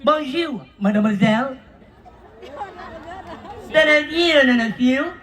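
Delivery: repeated bonjours in a mock French accent. Host calls French, answered with mock French greetings.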